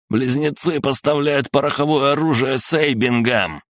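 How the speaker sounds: high-pitched urgent cry; desperate cry. A narrator's reading. Prisoner facing torture accuses gangs, crying out high. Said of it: "закричал Людвиг".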